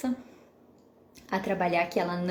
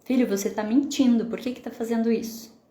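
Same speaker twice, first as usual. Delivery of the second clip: scolding parent; 3 semitones higher, 3 dB louder than usual. Retold or imitated. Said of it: "algumas pessoas".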